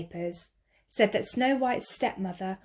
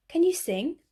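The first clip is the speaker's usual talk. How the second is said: raised jazzman voice; 9 semitones higher than usual. Acted. Jazzman asks in story.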